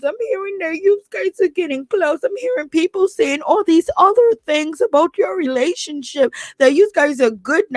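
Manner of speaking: high whiny crybaby imitation. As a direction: whine it like a crybaby. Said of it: "in her crybaby voice".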